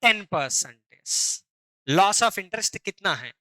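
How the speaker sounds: ordinary talk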